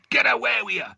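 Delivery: high, loud shout. Acted. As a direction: bark him away, high and loud. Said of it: "shouted Law".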